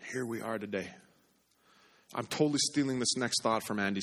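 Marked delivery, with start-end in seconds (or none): 0.1-0.9 "Here we are today" repeated much softer, stress on "Here"; soft echo. Shown as a demonstration. Pastor quietly repeating his point to the congregation. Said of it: "And here we are today".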